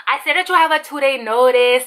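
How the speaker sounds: imitation Hispanic accent. Cha-Cha repeats the notice to employee, mock Hispanic accent. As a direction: mimic the manager with a Hispanic accent. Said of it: "I'm doing a Hispanic accent right now".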